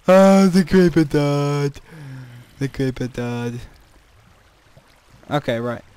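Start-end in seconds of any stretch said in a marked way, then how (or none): 0.1-1.8 slow, drawn-out amazed exclaim; surprised. Real, not acted. Watching the creeper die, drawn-out amazed exclaim. 2.6-3.6 lower, softer deadpan repeat; quiet echo. Real, not acted. Repeating the news to himself, lower and softer.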